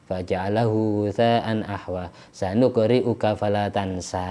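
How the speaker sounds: understated, even-toned recitation; Quran recitation. Acted. Teacher showing which verses of Al-A'la to read, understated recitation. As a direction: recite it evenly, drawing out the last verses.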